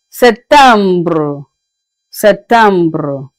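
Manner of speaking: "septembre" with a rolled French ending "bruh". Shown as a demonstration. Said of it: "Should I take it again?".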